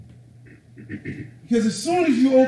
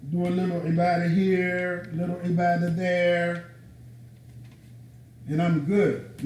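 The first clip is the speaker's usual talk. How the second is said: level, casual mimicry of the easygoing believer; mock complacency; 3 semitones lower, 3 dB quieter than usual. Preacher mimicking people who got it twisted, complacent. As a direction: toss it off on one note as if that's enough.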